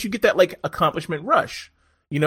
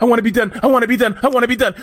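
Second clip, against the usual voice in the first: mock exhausted rider, higher and louder; 7 semitones higher, 7 dB louder, much faster than usual. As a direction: whine it like a rider who wants the race over. Rider retold mid-race.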